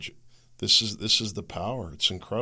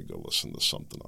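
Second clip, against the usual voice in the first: mock rude brush-off; 6 dB quieter, faster than usual. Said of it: "I don't talk like that".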